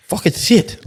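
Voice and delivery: high-pitched lisping imitation; imitated lisp. Backpacker imitates mate with knocked-out teeth, lisping. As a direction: lisp it like your front teeth are gone. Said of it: "with a lisp kind of thing".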